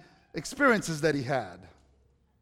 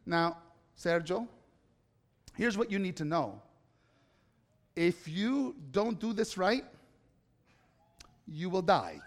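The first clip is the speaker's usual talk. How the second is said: imitating dad's warning. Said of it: "he would say to me".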